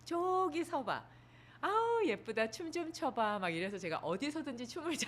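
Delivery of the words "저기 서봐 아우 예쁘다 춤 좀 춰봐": high, slow, delighted coaxing; doting mother voice. Retold or imitated. Mother urging her little daughter to dance, high doting gush. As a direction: gush like a proud mom egging her child on. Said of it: "어렸을 때부터 그러셨어요".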